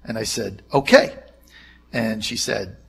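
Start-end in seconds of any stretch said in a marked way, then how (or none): 0.7-1.2 meek okay. Retold or imitated. Meek reply to angry boss.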